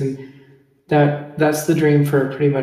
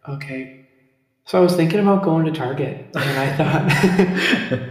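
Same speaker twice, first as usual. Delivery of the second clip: overdone North Dakota accent, stretched out; too strong North Dakota accent; 2 semitones higher than usual. Shown as a demonstration. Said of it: "let me be like".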